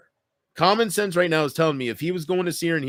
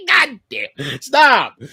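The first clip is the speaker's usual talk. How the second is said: mock shock; 9 semitones higher, 8 dB louder, much slower than usual. Real, not acted. Reacting to chat, high.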